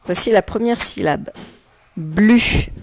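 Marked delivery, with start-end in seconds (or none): 2.0-2.7 syllable dictated loud and clear; dictation. Shown as a demonstration. Teacher dictating the first syllable to pupils, dictation voice. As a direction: say BLU as one isolated, carefully projected syllable. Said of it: "Je vais te dicter les syllabes".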